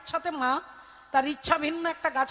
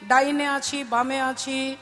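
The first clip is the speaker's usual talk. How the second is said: calm divine voice. Acted. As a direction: gently reassure the grieving mother. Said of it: "আর পেছন থেকে বলে উঠল".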